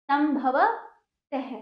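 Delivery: संभवतः stretched slowly with a breathy ह at the end, sambhavatahe; slow drawn-out. Shown as a demonstration. Teacher slowly stretches संभवतः for pupils.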